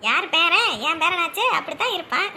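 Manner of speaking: laughing, proudly claiming him. Acted. Grandmother claims the clever grandson with a proud laugh. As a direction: laugh with pride over the grandson.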